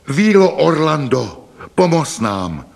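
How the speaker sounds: loud, high, drawn-out plea; calling for help. A narrator's reading. Trapped rider calls on fairy Orlanda, pleading loudly. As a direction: call out slowly to summon help.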